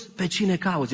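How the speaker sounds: lightly voiced question, plain pace; just ask who she seeks; Jesus asking gently. Jesus asks weeping Mary at the tomb, mildly voiced.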